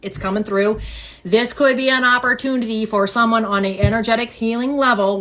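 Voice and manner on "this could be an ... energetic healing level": lightly flat robot voice; a hint of a monotone robot. Real, not acted. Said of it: "Why are we talking like a robot?".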